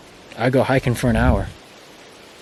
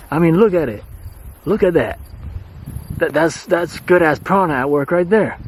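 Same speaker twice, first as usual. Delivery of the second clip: excited enthusing; 4 semitones higher than usual. Real, not acted. Enthusing about good prana.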